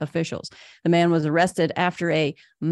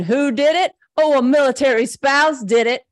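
excited; 6 semitones higher, 5 dB louder than usual. Real, not acted. Excited reveal of the spouse.

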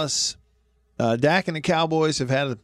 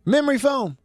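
1 incredulous; 12 semitones higher than usual. Real, not acted. Host hears coffins have memory foam.

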